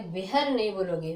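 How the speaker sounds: वेहर with an audible h in the middle; wrong h sounded. Shown as a demonstration. Teacher warning students against saying वेहर. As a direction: lean on the h of वेहर as the error.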